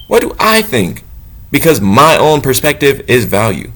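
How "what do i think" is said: What do I think? lifted much higher in pitch; higher, questioning take. Shown as a demonstration. Asking himself instead of God, higher and wondering.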